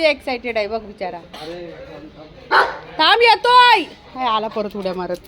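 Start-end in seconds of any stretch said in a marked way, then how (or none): 3.0-3.8 high, loud call to wait. Real, not acted. Owner telling an excited dog to wait, calling out.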